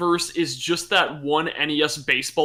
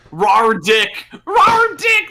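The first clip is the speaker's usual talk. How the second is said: shouting the name higher and louder; excited shout; 5 semitones higher, 7 dB louder, much slower than usual. Pretend. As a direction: holler it like a home run call. Hollering silly name like announcer.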